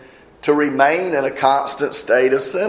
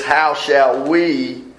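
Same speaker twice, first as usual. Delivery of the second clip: slow emphatic reading; much slower than usual. Shown as a demonstration. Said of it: "he says".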